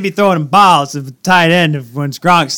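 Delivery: Boston sports fan boasting; hammed-up Boston accent. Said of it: "Boston accent".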